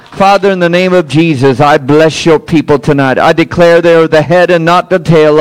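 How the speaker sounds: firm, rolling preacher's benediction; declarative blessing prayer. Real, not acted. Pastor blessing the people before they go, declarative prayer. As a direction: pray it out in rhythmic declarations. Prays blessing over congregation.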